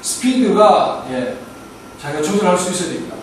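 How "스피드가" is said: "스피드가" drawn out very slowly; very slow, deliberate "스피드가"; slow speed demo. Shown as a demonstration. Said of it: "강조해서 빨리 해야 될 때는".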